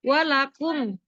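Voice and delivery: "Walakum" with a clear, unhummed m; "Walakum" pronounced plainly, no buzz on the m; clear reading. Shown as a demonstration. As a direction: recite "Walakum" distinctly, closing the m cleanly. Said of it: "dibacanya jelas".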